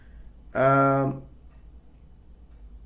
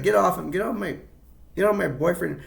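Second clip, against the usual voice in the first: mock angry, higher pitched; 5 semitones higher than usual. Mary yelling at Baby off her boyfriend, mock anger. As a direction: get off him, jealous girlfriend. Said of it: "it's like".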